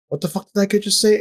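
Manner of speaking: high-pitched retold bafflement; incredulous thought. His startled thought, acted out.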